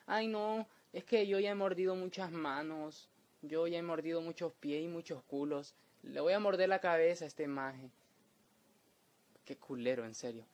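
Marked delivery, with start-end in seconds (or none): 0.1-7.9 lightly voiced snobbish dog, a bit higher; a dog lightly voiced as a picky diner; hint of a bored, fussy dog; imagined dog voice. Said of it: "imagino al perro diciendo".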